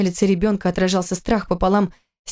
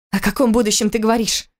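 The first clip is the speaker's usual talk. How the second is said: indignant; 3 semitones higher than usual. Acted. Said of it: "возмутилась она".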